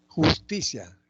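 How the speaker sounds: teacher clearly marking the middle syllable of "Justicia"; stress on TI. Shown as a demonstration. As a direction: say "Justicia" high, leaning on TI. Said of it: "en ti".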